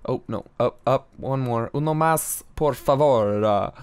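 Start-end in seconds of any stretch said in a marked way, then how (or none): 1.7-3.4 failed Italian accent. Shown as a demonstration. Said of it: "I'm doing, like, an Italian accent".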